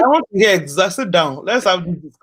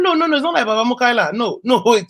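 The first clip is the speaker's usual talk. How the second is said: pleading backpedal; 5 semitones higher than usual. Retold or imitated. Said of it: "I said".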